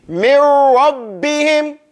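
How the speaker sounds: slow Mir rabbihim with a strong b; correct recitation. Shown as a demonstration. Teacher giving the right reading again.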